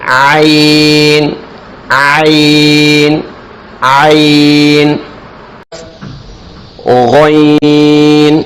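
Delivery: عین squeezed long from the throat; throat pressed. Shown as a demonstration. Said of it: "گلے سے نکالیں گے زور لگا کر".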